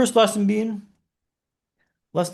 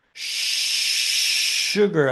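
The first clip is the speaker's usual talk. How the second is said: unvoiced, drawn-out hushed curse; stifled curse; 3 semitones lower than usual. Dropping the clicker, a hushed swallowed curse. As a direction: breathe the swear word out under the breath. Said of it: "I say".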